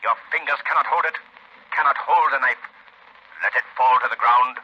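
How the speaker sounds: bend his will to drop the knife; commanding voice. Acted. The Shadow commanding the old woman to drop her knife.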